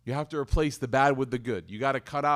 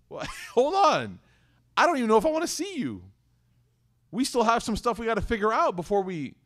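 indignant; 5 semitones higher than usual. Retold or imitated. Indignant reply to offender.

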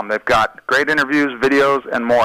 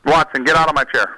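playful shout. Real, not acted. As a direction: shout it out in jest. Joking shout at chair thief.

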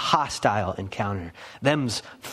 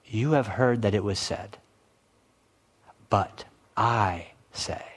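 Jesus speaking with authority; 2 semitones lower than usual. Retold or imitated. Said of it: "would have spoke like this".

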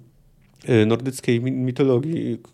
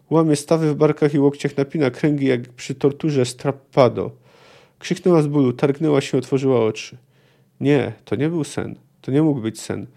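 reading a novel aloud, steady and measured; measured literary reading; story narration. A narrator's reading. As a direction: tell it like an audiobook narrator. Reads torture vision passage.

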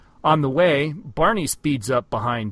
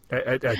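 chicken clucking; faster than usual. Retold or imitated. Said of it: "little clucky chicky noises".

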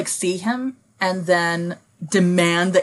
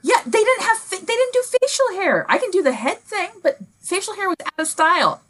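haughty Regency voice; 13 semitones higher than usual. Acted. Haughty Regency-style reply.

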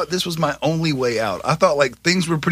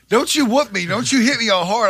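put-on higher-pitched protesting kid voice; defiant kid; 7 semitones higher than usual. Child warning Dad off a whooping, higher defiant voice.

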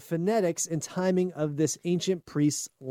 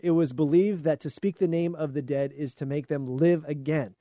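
ordinary talk

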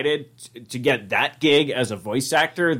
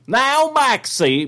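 Goofy voice; 11 semitones higher, 3 dB louder, much slower than usual. Pretend. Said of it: "try to do it from the movie".

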